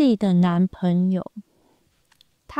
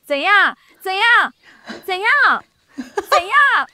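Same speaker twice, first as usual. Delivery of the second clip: higher and louder mock quarrel, half laughing; imitating a couple quarrelling; 11 semitones higher, 4 dB louder, slower than usual. Retelling a video of a couple arguing, mock angry. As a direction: snap it back and forth like a silly fight. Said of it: "两个人他们在吵架".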